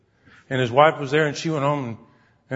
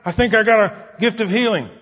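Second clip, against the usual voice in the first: nervous excitement; 5 semitones higher, 3 dB louder than usual. Retold or imitated. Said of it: "He's so nervous".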